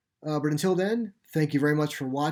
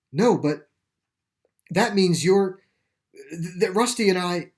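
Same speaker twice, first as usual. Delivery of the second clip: dawning horror; 5 semitones higher, 7 dB louder than usual. Acted. Boy realizing his dog died.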